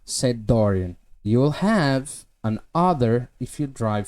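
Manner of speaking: slow, careful English reading; slow reading aloud. Shown as a demonstration. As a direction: read each word out slowly. Reads novel passage aloud.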